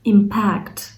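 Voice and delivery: impact said as im-PACT, the second syllable stressed. Shown as a demonstration. Teacher showing students the verb: im-PACT, second syllable stressed. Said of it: "наголос на другу частинку".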